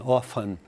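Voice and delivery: Often with no t sound, OF-en; American often. Shown as a demonstration. Teacher repeats American Often for class. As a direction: model Often the American way, t silent. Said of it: "Often é a pronúncia americana".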